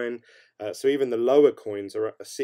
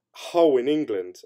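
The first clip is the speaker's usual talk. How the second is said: put-on Hull accent; 4 dB louder than usual. Streamer naming the town to viewers in an attempted Hull accent. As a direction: have a failed go at a Hull accent. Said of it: "I can't do a Hull accent".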